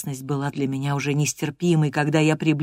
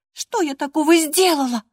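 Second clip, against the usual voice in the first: much higher whimpering question; whining girl; 12 semitones higher than usual. Acted. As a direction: whine like a sulky child. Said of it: "захныкала Кэтрин".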